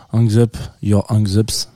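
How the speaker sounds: English title in a heavy French accent; slow English with thick French accent. Real, not acted. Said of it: "j'ai un accent anglais qui est, euh, coupé au couteau". (anglais avec un fort accent français)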